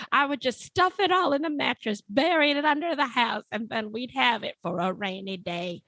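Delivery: lightly aged 1920s voice; a hint of an old man fretting about the depression; old-timey old man. Harry planning to hide money in the mattress, lightly aged voice. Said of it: "you aged quite a bit".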